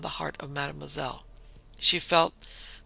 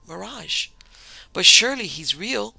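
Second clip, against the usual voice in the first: clear, birdlike woman's cry, higher and swooping; little bird's clear voice; 5 semitones higher, 8 dB louder than usual. A narrator's reading. Mademoiselle cries out at the desert mirage, high and clear. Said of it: "cried in her little bird's clear voice".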